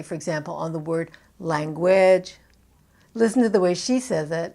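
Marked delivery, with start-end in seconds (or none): 1.4-2.4 "language" with its last syllable lengthened and lifted; stretched final syllable. Shown as a demonstration. Coach imitates Portuguese speaker's carryover, "language" with stressed last syllable. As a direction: stretch and lift the end of "language". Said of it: "stretch out a vowel and lift the volume".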